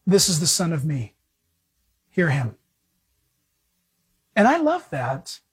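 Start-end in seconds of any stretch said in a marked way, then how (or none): 0.1-2.6 low, measured divine voice; voice from the cloud. Acted. God speaking out of the cloud, low solemn pronouncement. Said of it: "a voice comes out of the cloud".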